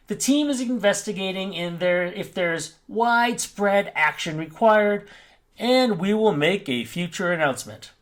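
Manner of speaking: lightly put-on customer support voice. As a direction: read it out like an official support notice. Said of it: "I'm gonna go back to my, my, um, support voice".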